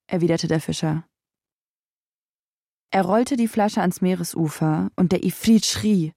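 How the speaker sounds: plain reading voice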